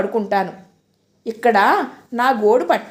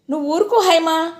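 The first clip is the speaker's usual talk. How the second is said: snapping; 5 semitones higher than usual. Acted. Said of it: "ఆవిడ కసిరింది".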